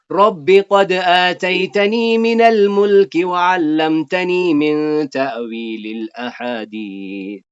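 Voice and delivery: lifted, drawn-out Quranic recitation. Acted. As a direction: intone the prayer verse slowly and fully. Recites Yusuf's prayer verse.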